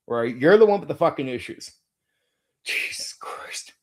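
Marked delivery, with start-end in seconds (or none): 2.6-3.7 slow whispered sigh of disbelief; exasperated whisper. Real, not acted. Streamer whispers in disbelief at critics, exasperated. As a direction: breathe it out, fed up. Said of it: "sorry, Lord".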